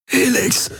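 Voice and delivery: high, breathless gasp of a name; a pained, airless gasp. Acted. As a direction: force the word out on a gasp. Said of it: "keuchte Garland".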